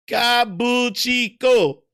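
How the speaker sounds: Kabuchiko said slowly with a laugh; laughing at himself. Real, not acted. Amused at his own mistake, slow laughing Kabuchiko. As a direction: laugh through the wrong Kabuchiko.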